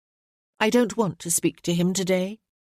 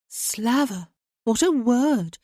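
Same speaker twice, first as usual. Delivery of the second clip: exclaiming; 4 semitones higher, slower than usual. A narrator's reading. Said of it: "exclaimed Harriet".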